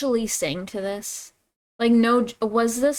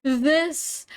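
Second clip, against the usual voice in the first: high-pitched baffled questioning; incredulous; 7 semitones higher, slower than usual. Real, not acted. Reacting to why he was doing this, incredulous. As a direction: question it high and drawn out in disbelief.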